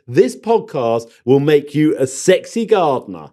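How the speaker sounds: slow, deliberate quoting; quoting James. Retold or imitated. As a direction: spell out the claim slowly. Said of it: "you said".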